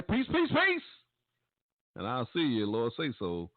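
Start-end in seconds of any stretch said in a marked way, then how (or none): 0.0-0.8 excited sign-off. Real, not acted. Radio host signing off.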